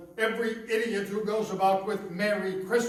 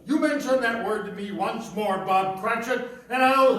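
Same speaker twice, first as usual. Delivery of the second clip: angry threat; 3 semitones higher, 5 dB louder than usual. Acted. Scrooge threatens his clerk.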